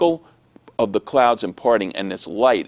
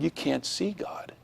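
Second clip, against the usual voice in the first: put-on soft, slow, higher kid's correction; quiet objection; 5 semitones higher, 11 dB quieter, slower than usual. Classmate objects to the drawing, soft and slow. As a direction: imitate a child hushedly contradicting.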